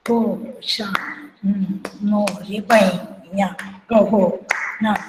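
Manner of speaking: syllables in quick drut tempo; fast tempo. Shown as a demonstration. Teacher showing how it was sung at speed, brisk tempo. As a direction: count the syllables out briskly, evenly spaced. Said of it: "speed में, द्रुत में".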